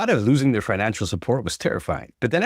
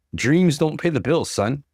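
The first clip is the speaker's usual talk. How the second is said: voice rising; 5 semitones higher, slower than usual. A narrator's reading. Dad raising his voice at his son over dreams, rising and slow. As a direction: lean on it as he raises his voice. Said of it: "his voice rising".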